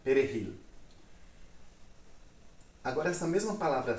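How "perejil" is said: "Perejil" with an H-like J; Spanish J. Shown as a demonstration. Teacher has just pointed out the J, Spanish H-like J in "Perejil". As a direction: say "Perejil" as pe-re-HIL, ending on a clear L. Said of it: "Ó o J, hein?".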